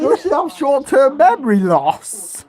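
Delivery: high, loud disbelieving question; incredulous. Real, not acted. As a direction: squawk it in disbelief. Incredulous at game.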